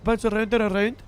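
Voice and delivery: lightly put-on South African accent. Shown as a demonstration. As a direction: bounce through the words in South African. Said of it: "it just becomes South African".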